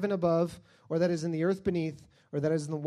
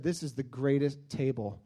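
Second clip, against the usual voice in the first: soft, tender crooning to a table; hushed mock lover serenading a table; mock doting love talk; 5 semitones lower, 6 dB quieter than usual. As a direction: whisper sweet nothings to your table, tongue in cheek. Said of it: "just said".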